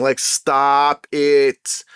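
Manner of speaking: drawn out, tired of it; weary slow "stop it"; slow exasperated plea. Retold or imitated. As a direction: stretch it out, fed up.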